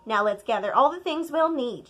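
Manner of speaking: loud eager grandma; exclaiming. Acted. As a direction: call it out with energy. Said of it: "she exclaimed".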